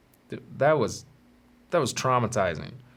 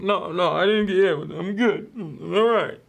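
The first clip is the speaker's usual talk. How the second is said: put-on denying kid; 8 semitones higher than usual. Kid denying to classmates, high mock protest. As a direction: insist you're fine. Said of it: "And I was like".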